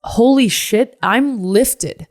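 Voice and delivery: high burst of joyful relief; excited relief. Real, not acted. To listeners about the ceremony, high excited relief. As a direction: let the weight fall off.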